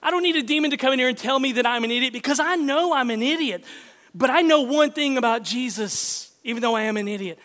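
fervent preaching. Real, not acted. Preaching climax.

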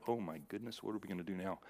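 panicked disciples. Retold or imitated. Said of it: "his disciples are hanging around him going".

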